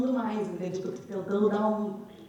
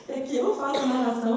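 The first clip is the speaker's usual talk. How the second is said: laughing; 3 semitones higher than usual. Real, not acted. Laughing while explaining role.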